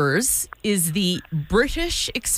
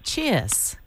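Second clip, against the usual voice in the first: mimicking British accent; 4 dB quieter than usual. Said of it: "I'm gonna try to mimic what you say".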